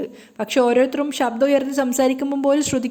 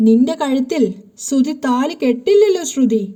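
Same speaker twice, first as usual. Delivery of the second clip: threatening; 3 dB louder, slower than usual. Retold or imitated. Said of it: "ഭീഷണിപ്പെടുത്തിക്കൊണ്ടാണ് Naveen സംസാരിക്കുന്നത്".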